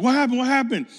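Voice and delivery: retold high, loud alarm; re-enacted frantic question; freaking out. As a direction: blurt it out, freaking out. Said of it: "freaking out".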